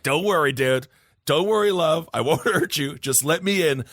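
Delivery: a lightly voiced wrestling villain, at normal pitch; a hint of a creepy wrestling heel; the Fiend from WWE. Host recasting the entity's plea as a wrestling villain, lightly voiced. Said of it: "like the Fiend from W W E".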